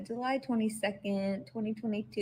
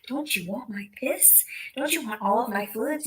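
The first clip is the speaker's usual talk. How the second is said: sarcastic taunt; 3 semitones higher than usual. Retold or imitated.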